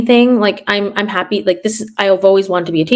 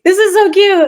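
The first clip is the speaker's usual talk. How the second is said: gushing aside; 11 semitones higher, 5 dB louder than usual. Retold or imitated. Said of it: "I'm like".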